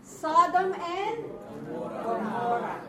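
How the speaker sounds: Sodom and Gomorrah with a hard G, slow and loud; teacher showing the G sound; demo pronunciation. Shown as a demonstration. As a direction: stretch Sodom out, then land on the G of Gomorrah. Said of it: "the letter I originally is G sound".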